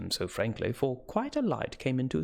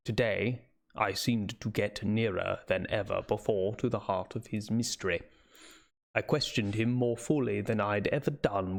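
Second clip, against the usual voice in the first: put-on Seward's British accent; 4 semitones lower than usual. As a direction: read the doctor's diary in an attempted British accent. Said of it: "variation of his dialect that I'm attempting".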